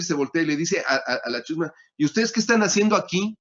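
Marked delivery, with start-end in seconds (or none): 2.0-3.4 scolding. Retold or imitated. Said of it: "Les empieza a reclamar".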